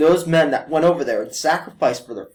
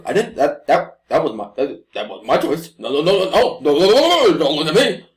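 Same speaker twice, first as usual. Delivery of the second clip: mock stammering denial. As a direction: dodge the blame, panicking more and more. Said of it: "He goes".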